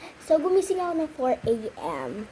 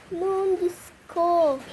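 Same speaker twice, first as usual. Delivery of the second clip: retold alarm; 5 semitones higher, 3 dB louder, much slower than usual. Slipping in the bathroom.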